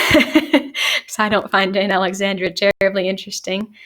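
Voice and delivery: amused chuckle through the words; laughing. Real, not acted. Teacher laughing to students about a boring aunt, amused. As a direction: laugh it off while explaining.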